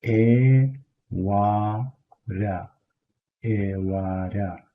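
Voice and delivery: "ewara" first punched out, then slowed down; Kurdish ewara. Shown as a demonstration. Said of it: "the next thing would be evening".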